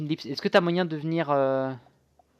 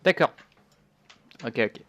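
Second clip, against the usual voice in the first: ordinary talk, nothing marked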